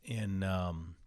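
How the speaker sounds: blocked nose, congested voice; stuffy nose. Real, not acted. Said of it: "so stuffy here".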